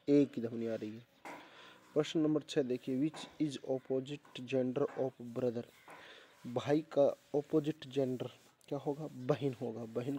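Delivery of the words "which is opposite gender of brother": each word read out slowly and clearly; slow dictation. Shown as a demonstration. Teacher reading the question slowly to the class.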